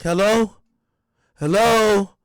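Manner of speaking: loud, high "Hello?" into a dead line; calling out. Retold or imitated. Mother calling into the silent phone, loud and high. Reading her unanswered call.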